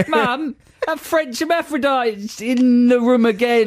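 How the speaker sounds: high squeaky sped-up voice; chipmunk-style high voice, slowed words; sped-up Camille voice. Acted. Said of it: "That's Camille's speeded up voice".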